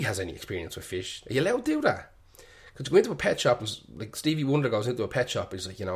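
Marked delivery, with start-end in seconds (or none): 1.3-3.7 mock incredulous. Real, not acted. Mock outrage at album cover.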